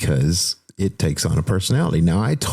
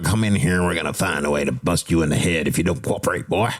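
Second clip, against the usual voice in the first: lightly voiced tough-guy detective; a hint of an old-time hardboiled gumshoe; 1930s gumshoe detective; 2 semitones lower than usual. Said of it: "started talking like a nineteen thirties gumshoe detective".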